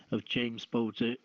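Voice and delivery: usual speaking voice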